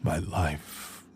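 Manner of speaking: breathy hushed grief for the maker. Acted. Sword spirit mourning its maker, hushed and sad.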